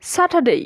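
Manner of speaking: "স্যাটারডে" high then falling, silent r, full "dey" glide; correct pronunciation. Shown as a demonstration. Teacher giving the correct form to learners, careful model pronunciation. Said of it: "Repeat after me".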